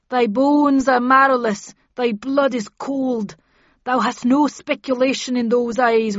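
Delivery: loud, high, horrified king; Macbeth. Acted. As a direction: drive the ghost away in terror.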